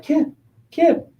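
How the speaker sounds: eight-year-old fan calling to the player, mock kid voice. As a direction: pester him like a little fan at the dugout. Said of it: "this little eight-year-old fan comes down".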